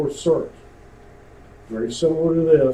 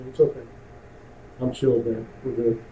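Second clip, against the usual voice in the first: softer, laid-back reassurance; calm and chill; 5 semitones lower, 7 dB quieter than usual. Shown as a demonstration. Instructor showing how to sound calm on the radio. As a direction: show them how unbothered sounds. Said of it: "act like nothing's happened".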